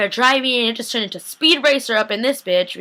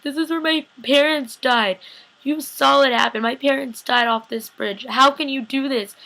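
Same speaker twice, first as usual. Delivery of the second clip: higher-pitched, mildly upset pleading; acted distraught plea; 5 semitones higher than usual. Recapper as Elena at the bridge where parents died, mildly distraught. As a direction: imitate a wounded, reproachful appeal.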